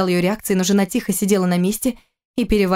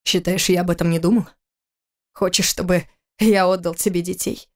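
calmer tone. A narrator's reading. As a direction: settle down and speak evenly. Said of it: "продолжил более спокойным тоном". (более спокойным тоном)

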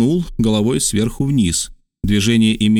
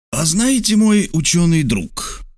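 smiling, teasing, slower; slightly smiling; 7 semitones higher, slower than usual. A narrator's reading. Major gently teasing the learned geographer, smiling. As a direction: tease him gently with a smile. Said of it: "начал слегка улыбаясь майор".

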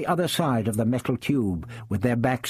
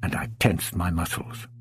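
usual speaking voice

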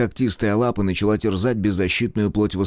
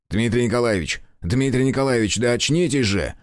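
shouting; 3 semitones higher than usual. Acted. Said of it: "Крик Белецкого разорвал морок".

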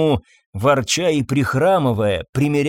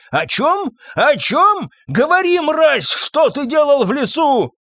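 furious scream; 12 semitones higher than usual. Acted. Master shaking the groom, furious scream. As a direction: scream the question in his face.

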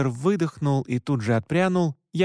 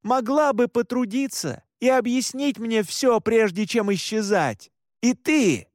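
angry yell; 8 semitones higher than usual. Acted. Son continues yelling at mother.

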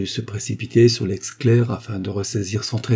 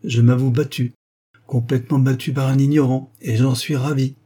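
cheerful admission; 4 semitones higher, 5 dB louder than usual. Acted. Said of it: "avec un franc sourire".

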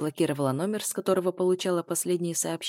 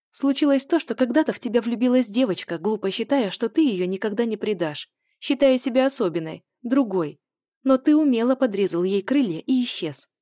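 higher and louder, hurt and angry; bitter accusation; 5 semitones higher, 6 dB louder than usual. A narrator's reading. Woman accuses her ex on the phone, louder, hurt and angry. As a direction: throw the betrayal back at him.

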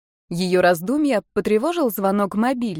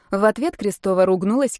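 ordinary delivery, nothing marked

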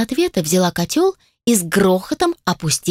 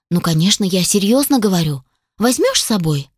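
a touch softer and coaxing. Acted. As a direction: gently talk him round, understated. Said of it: "тут же мягче добавила". (чуть мягче, уговаривая)

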